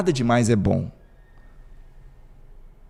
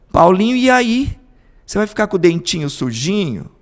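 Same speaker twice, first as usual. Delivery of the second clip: pleading mother; 7 semitones higher, 5 dB louder than usual. Retold or imitated. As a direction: coax the boy one more time. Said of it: "Aí ela vai de novo". (mãe insistindo, aguda e melosa)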